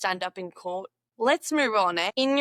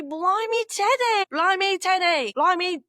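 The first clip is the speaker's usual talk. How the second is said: high, loud astonished cry; startled shout at a bear; surprised exclaim; 8 semitones higher, 4 dB louder than usual. Acted. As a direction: yelp it like you've just met a bear. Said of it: "even say".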